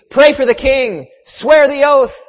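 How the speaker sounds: loud, high shouted command; screamed order. A narrator's reading. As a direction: shout it as a furious demand. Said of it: "and screamed".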